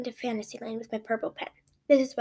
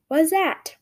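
put-on little kid voice; 4 semitones higher, 6 dB louder than usual. A narrator's reading. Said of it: "Ella asked in her adorable little voice".

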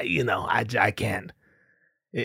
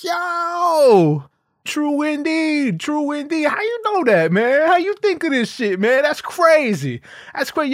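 laughing audience member; 11 semitones higher than usual. Retold or imitated. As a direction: hype fan blown away by the joke. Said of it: "audience reacting".

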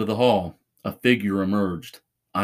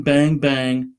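louder toy gun noises; 4 semitones higher, 4 dB louder than usual. A narrator's reading. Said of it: "pretending to get in high-speed car chases".

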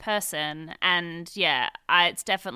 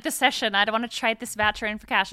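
indignant insistence; 4 semitones higher, 5 dB louder than usual. Retold or imitated. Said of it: "she's like".

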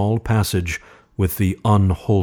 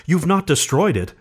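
urgent; 8 semitones higher than usual. A narrator's reading. Wife urgent question.

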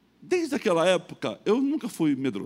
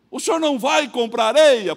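higher, louder mock creditor; creditor's question; 10 semitones higher, 10 dB louder than usual. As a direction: play the big creditor asking.

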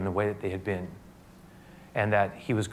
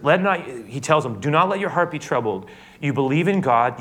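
raised, higher pleading voice; fervent plea; 5 semitones higher, 4 dB louder than usual. Acted. Jesus urging troubled disciples, raised and pleading. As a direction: urge them loudly not to fear. Preacher voicing Jesus, rising.

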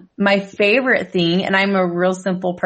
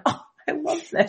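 in a trance; 7 semitones higher, 7 dB quieter than usual. Retold or imitated. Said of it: "She was, like, in a trance".

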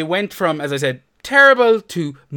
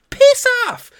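much higher, much louder shout; angry shout; 9 dB louder than usual. Real, not acted. Host telling the FPL account to piss off, full shout. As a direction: bark it out in disgust. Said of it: "That's my attitude".

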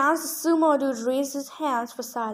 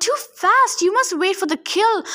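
higher and louder, furious orders; bellowing; 7 semitones higher, 4 dB louder than usual. A narrator's reading. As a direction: roar at the arena in rage. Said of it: "Antaeus bellowed".

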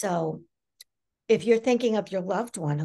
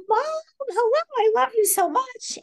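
loving greeting; 5 dB louder than usual. Retold or imitated. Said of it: "So I said".

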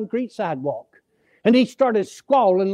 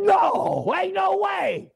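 incredulous protest; 8 semitones higher, much slower than usual. Retold or imitated. Preacher refusing to believe the captain, shouted disbelief. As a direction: cry out that it can't be.

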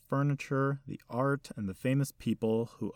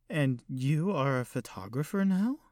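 put-on elderly lady; 5 semitones higher than usual. Old hostess voiced by narrator.

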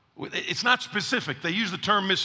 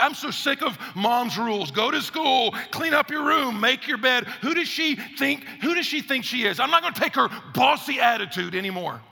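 put-on fed-up kid; 4 semitones higher than usual. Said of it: "another one's like".

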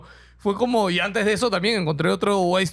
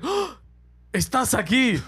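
alien's excited greeting; 3 semitones higher, much slower than usual. Retold or imitated. Alien greets him in story.

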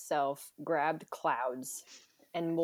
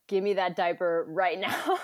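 laughing demand; 4 dB louder than usual. Retold or imitated. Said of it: "I was like".

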